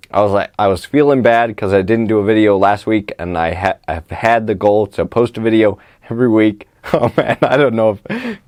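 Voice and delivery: numb mouth, slightly slurred; numb from the dentist. Real, not acted. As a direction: talk with half your mouth numbed. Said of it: "can you guys even listen to this?".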